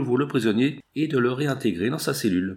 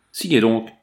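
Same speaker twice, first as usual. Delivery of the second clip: louder, pressing command; insistent order; 5 dB louder than usual. Acted. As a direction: hammer the order home. Bandit presses his captive.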